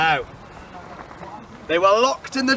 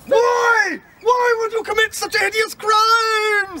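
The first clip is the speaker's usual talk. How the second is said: slow, higher pompous judge; booming judge; 9 semitones higher than usual. Acted. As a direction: pronounce it from the bench. Judge demands.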